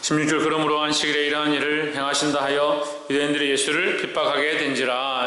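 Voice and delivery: low, even-toned Bible reading; scripture reading. Acted. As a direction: read the verse in a level, measured chant. Reads scripture to congregation.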